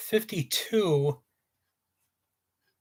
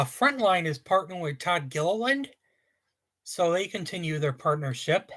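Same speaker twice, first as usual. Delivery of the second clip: talking while being shaken; on a bumpy road. Real, not acted. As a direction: voice jostled by shaking. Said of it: "sorry about the shaking".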